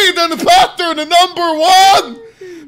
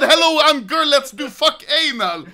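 laughing read of chat. Retold or imitated. Streamer rereading the chat whisper, laughing. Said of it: "someone whispered Ville said".

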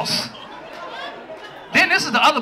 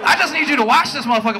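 mock surprised boyfriend; 4 semitones higher than usual.

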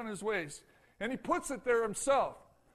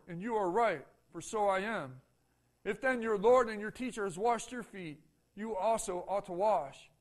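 measured, lower scripture reading voice; 3 semitones lower than usual. Acted. Pastor reading John to the congregation, solemn scripture reading. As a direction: read the Gospel passage with calm solemnity.

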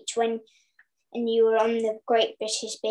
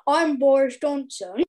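Boris Johnson impression. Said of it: "You've got the accent there".

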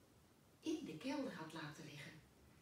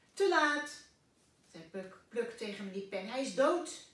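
upset exclaim; 4 semitones higher, 13 dB louder than usual. Acted. Pluk reports the death.

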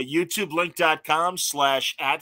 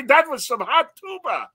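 much higher and slow, goofy polka emcee drawl; Schmenge voice; 14 semitones higher, 6 dB louder than usual. Retold or imitated. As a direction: stretch out hot tuba like a cheesy bandleader. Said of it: "in his schmeggy voice".

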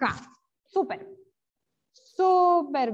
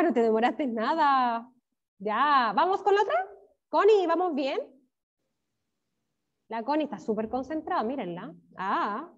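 ordinary delivery

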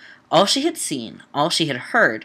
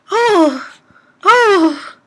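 startled oh; 13 semitones higher, 6 dB louder than usual. Real, not acted. Reacting to a dead body.

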